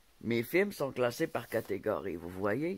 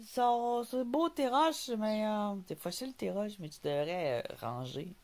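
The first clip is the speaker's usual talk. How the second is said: much higher mock voice of a know-it-all commenter; higher teasing imitation of a smug viewer; mocking quote of a critic; 9 semitones higher, slower than usual. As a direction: parrot the critic's comment with a sneer. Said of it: "j'ai eu un message qui m'a dit".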